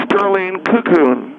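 "Cocoon" as KOO-koon; corrected name pronunciation. Acted. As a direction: correct them with the front of "Cocoon" stressed. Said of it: "you pronounce your name differently".

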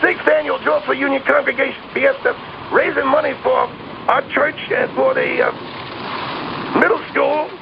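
jolted voice on a ride; talking while riding a roller coaster. Real, not acted. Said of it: "on a roller coaster right now".

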